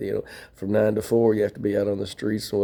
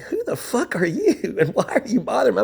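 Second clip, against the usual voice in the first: retold telling off; 12 semitones higher than usual. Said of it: "I'm like".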